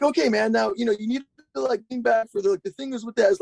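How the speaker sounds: high-pitched imitation of a technical guru; Roddy Mullen as voice-cracking Yoda. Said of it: "like a voice cracking version of Yoda".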